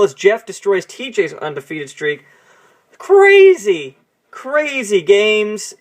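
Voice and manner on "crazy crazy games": excited exclamation. Real, not acted. Marvelling at the results.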